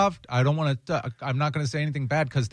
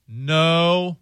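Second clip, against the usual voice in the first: crowd in unison; 5 dB louder than usual. Retold or imitated. Whole crowd answers at once.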